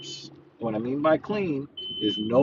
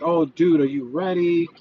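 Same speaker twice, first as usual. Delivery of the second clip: mildly whiny mimicry, slightly raised pitch; put-on grumbling, a touch higher; mock whining complaint; 3 semitones higher, 3 dB louder than usual. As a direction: imitate a reluctant gym buddy complaining. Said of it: "cry and whine and complain like".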